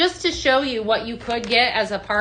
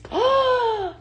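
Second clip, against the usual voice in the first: very high drawn gasp; long high gasp of delight; 13 semitones higher than usual. Real, not acted. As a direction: gasp in thrilled surprise. Delighted at product.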